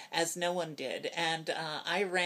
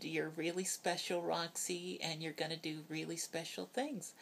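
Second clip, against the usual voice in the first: soft, hushed and tender, fading softer; retold whisper; 5 dB quieter than usual. Mother in hospital hugging her child, softly hushed. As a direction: murmur it gently, close to the ear during a hug. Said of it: "she whispered some really nice things".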